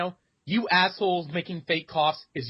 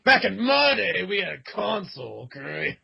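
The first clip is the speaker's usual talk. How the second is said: put-on grumpy old-timer voice; 3 semitones higher than usual. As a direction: lecture like a crusty old gamer. Mocking an old gamer.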